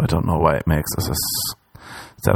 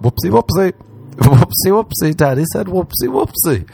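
high whoopsie with a laugh; giggly baby talk; 9 semitones higher than usual. Pretend. After being called daddy, high giggly baby talk. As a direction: chirp it, giggling.

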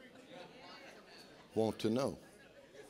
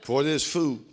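mumbled, perfunctory mealtime prayer; mock a man rushing grace; lazy man's grace; 8 semitones higher, slower than usual. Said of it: "men pray like this".

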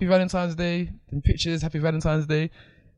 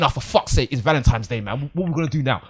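grumbling moan. Retold or imitated. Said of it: "I ain't saying it like that".

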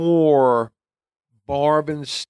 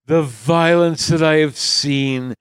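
dramatic memoir narrator; 4 dB louder than usual. Pretend.

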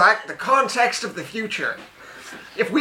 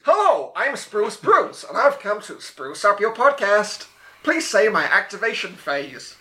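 robot voice. Acted. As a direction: announce yourself like a machine. Robot introduces itself.

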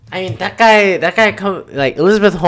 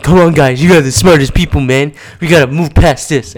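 mock pep talk; 6 dB louder than usual.

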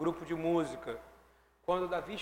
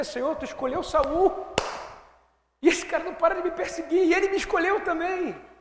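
much higher, loud, pleading voice; David's complaint; 11 semitones higher, 7 dB louder than usual. Retold or imitated. David complains to God about Saul, high and loud pleading. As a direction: cry out as a baffled, wronged David. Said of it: "ele não entendia".

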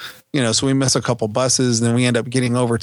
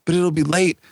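put-on worried child; 6 semitones higher than usual. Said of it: "she's like".

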